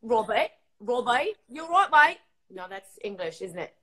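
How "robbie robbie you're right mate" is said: badly faked Australian accent, drawn out then louder; attempted Australian accent. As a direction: have a shaky go at an Australian accent. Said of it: "Australian accent".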